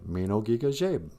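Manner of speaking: teaching the greeting word by word; Ojibwe greeting. Shown as a demonstration. Teacher demonstrating Ojibwe good morning. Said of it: "That means good morning".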